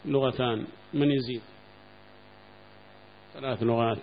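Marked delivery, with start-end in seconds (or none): none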